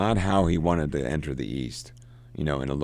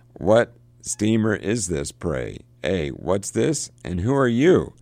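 higher, louder, slow demanding call across the water; barking back; 5 semitones higher, 5 dB louder, slower than usual. Acted. Marlowe shouting up from the boat at the steamer's captain, barking. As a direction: bark the questions back at the ranting captain. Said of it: "how Marlowe barks back at him".

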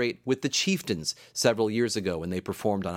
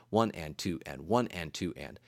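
soft low even count; counting in two; 5 semitones lower, 5 dB quieter than usual. Shown as a demonstration. Teacher counting two four time for listeners, soft and low. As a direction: tick off one and two and, softly. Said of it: "if I notated it in two four time".

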